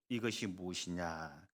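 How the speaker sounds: low, slow, deflated question; full of disappointment. Acted. Israelites looking at manna, low and disappointed. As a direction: drag the question out, let down. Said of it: "아주 실망이 가득 담긴".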